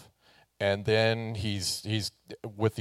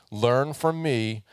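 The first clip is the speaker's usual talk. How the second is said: learn from me, said slowly; slow emphasis; 3 semitones higher, slower than usual. Retold or imitated. Pastor repeating Jesus's words, slow emphasis. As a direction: stretch from in learn from me. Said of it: "And he says".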